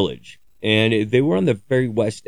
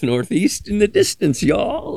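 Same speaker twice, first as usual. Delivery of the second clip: higher, playful mock direction-giving; mock greeting; 11 semitones higher than usual. Joking to viewers with a much higher mock greeting. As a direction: toss off the catchphrase in a much higher teasing voice. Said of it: "repeating the mocked greeting".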